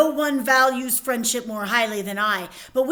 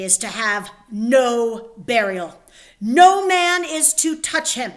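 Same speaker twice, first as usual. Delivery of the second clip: stern decree; 4 dB louder than usual. Acted. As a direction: proclaim it like a stern king. King proclaiming harsh decree.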